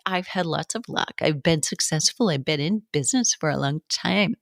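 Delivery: put-on light Valley girl lilt on every line. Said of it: "like, a Valley girl. I'm doing that on purpose".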